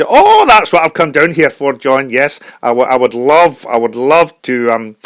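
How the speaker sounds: eager Scottish singer's brogue; Scottish accent. Acted. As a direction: offer a song in a halting Scottish accent. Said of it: "a Scottish singer".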